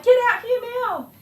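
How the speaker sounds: high, loud command; panicked mum yelling for help; urgent shout. Retold or imitated. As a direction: summon him at once. Urgent call to son.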